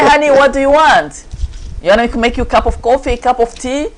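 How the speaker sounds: wife sweetly soothing a yelling husband; sweet-talking wife. Retold or imitated. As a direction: coax him with honeyed cheer, rushing the offer. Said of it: "I say".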